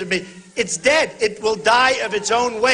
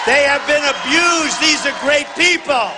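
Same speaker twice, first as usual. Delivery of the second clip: rally shout; 5 semitones higher, slower than usual. Real, not acted. Praising police to rally crowd.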